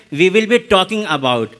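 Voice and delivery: everyday Indian-accented English, as a comparison. Shown as a demonstration. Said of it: "we Indians say in our accent".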